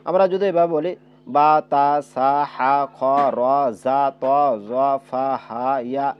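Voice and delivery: বা, তা run together quick, vowels not held; rushed letters, wrong. Shown as a demonstration. Teacher demonstrating incorrect reading to students, hurried. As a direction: rush through the letters in pairs. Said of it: "এটা সহি উচ্চারণ হইল না".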